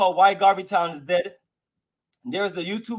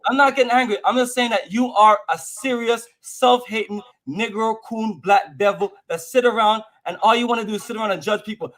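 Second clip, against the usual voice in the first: angry rant. Real, not acted. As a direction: lash out at the caller, voice rising. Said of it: "Why are you talking like this?".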